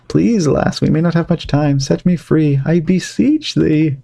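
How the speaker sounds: lightly voiced old colonial man, pleading; Poor Richard. Poor Richard begs the girl to free him, lightly pleading. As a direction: beg the lass for help in old-fashioned speech.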